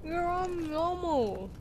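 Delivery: slow, talking through food; mouth full. Real, not acted. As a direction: speak around a mouthful. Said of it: "You saying that with a full mouth".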